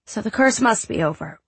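put-on high small boy voice; a sick little boy; young boy voice. Child Drew voiced high.

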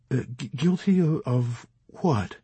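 beg, tripping over the words; imploring. Acted. Chaplain begging his interrogators, stammering and afraid. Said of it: "implored the chaplain".

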